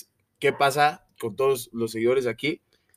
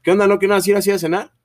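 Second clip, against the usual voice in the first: imitating mom on the phone; 6 semitones higher, 6 dB louder, faster than usual. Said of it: "Me pueden marcar a las once de la noche así".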